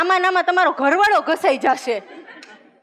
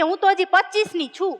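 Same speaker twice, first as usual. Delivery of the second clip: coy reply; 5 semitones higher than usual. Retold or imitated. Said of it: "ઓલી કે".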